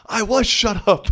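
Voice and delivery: high, laughing repeat of the retort. Real, not acted. Retelling the comeback to listeners, laughing high. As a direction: laugh through the punchline.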